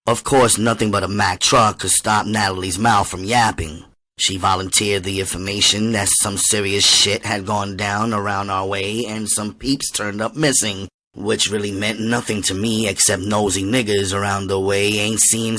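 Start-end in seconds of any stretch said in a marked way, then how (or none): none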